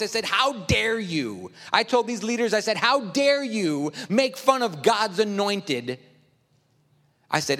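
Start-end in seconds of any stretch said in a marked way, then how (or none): 0.2-1.5 slow, drawn-out retold reproach; indignant rebuke. Preacher retelling his rebuke to church leaders, indignant. 2.8-6.0 slow, emphatic retold scolding; indignant rebuke. Preacher retelling how he confronted leaders over mockery, indignant.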